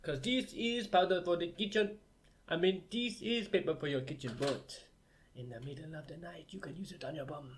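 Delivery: mock African accent jingle. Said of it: "an African voice".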